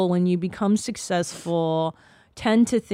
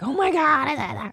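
mock amazement; 6 semitones higher, much slower than usual.

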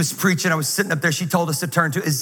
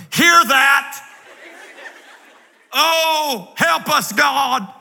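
mock pastor fervor; 8 semitones higher, much slower than usual. Pastor mocks how preachers react to the church, hammed-up. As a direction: ham up a pastor's holy amen. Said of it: "pastors will turn around to the church and we'll go".

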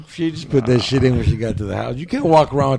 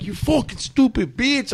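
mock outrage; 10 semitones higher than usual. Retells his angry reaction to girlfriend.

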